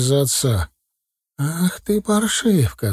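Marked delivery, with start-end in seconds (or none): 1.4-2.9 furious hiss. A narrator's reading. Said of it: "зашипела разъярённая мать".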